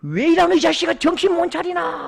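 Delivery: a father's hammed-up scolding. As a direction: thunder at the drunk son. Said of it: "호통을 칩니다".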